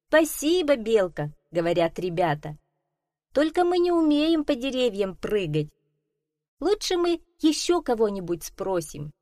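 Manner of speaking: a hint of eager kids; children's voices. Children answer politely. (слегка детские голоса)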